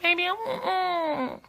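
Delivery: high, pouty whine trailing into a whimper; whining. Shown as a demonstration. Wife showing how she begs her husband, whining. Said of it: "I just whine".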